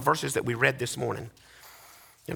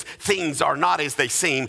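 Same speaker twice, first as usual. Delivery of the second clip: slow refrain; 2 semitones lower, slower than usual. Acted. Refrain take.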